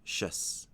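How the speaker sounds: "shus" said alone, with a sh sound; second syllable alone. Shown as a demonstration. Teacher breaking the word into syllables, isolated "shus". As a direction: sound out just the ending "shus". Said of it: "the second syllable is".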